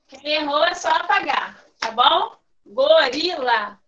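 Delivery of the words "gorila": Gorila drawn out slowly as go-ri-la; slow, split into syllables. Shown as a demonstration. Teacher separating Gorila into syllables on the board, slowly. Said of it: "vou separar aqui a palavrinha".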